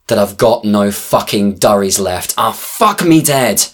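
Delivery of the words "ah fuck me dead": high, slow frustrated outburst; loud exclamation. Acted. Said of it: "I exclaim out loud".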